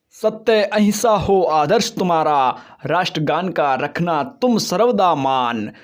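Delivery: proud recited patriotic verse; poem recitation. Acted. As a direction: declaim the lines with pride.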